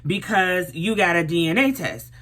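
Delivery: high, indignant disbelief; retold disbelieving callout; shocked outrage. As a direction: call him out, stunned. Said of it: "I'm like".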